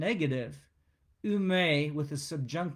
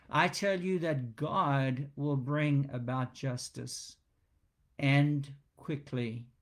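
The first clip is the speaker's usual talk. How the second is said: slow, measured declaration, pausing before "and quickly"; emphatic pronouncement. Shown as a demonstration. Preacher quotes Jesus's promise of justice, authoritative. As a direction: pronounce it with authority, "and quickly" slowly set apart. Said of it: "we hear this emphatic pronouncement, this authoritative pronouncement".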